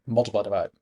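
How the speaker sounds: "multiply, divide" rattled off as one word; fast, run together. Shown as a demonstration. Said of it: "say 'em really fast together so it sounds like one thing".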